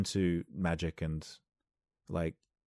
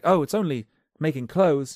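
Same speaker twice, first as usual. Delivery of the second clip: tailor voice; 9 semitones higher, 9 dB louder than usual. Acted. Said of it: "He's like".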